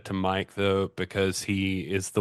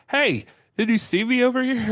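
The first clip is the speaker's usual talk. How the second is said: high, loud mock-spooky taunt; teasing roommate voice; 5 dB louder than usual. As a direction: play the roommate who's proud of his prank. Roommate jumps out to scare.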